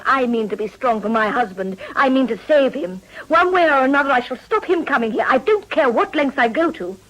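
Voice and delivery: a wife vowing to save her husband, with fervour; fervent devotion. Acted. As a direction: vow it with burning conviction. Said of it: "your voice burns with devotion".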